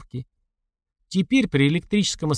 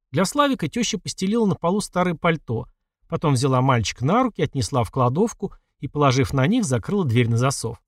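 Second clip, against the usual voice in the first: usual speaking voice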